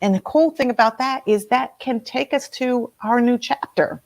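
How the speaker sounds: ordinary delivery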